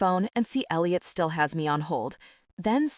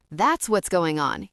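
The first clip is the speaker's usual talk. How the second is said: smiling repeat; 3 dB louder, slower than usual. Retold or imitated. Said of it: "he repeats".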